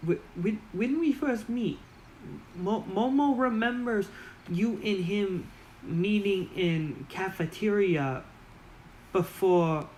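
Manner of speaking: very high, squeaky goblin asking; high goblin confusion. Acted. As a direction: pitch way up like a puzzled little goblin. Goblin Momo recalls.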